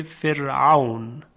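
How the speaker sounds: فرعون with a light, thin r. Shown as a demonstration. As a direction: say فرعون slowly, keeping the r delicate.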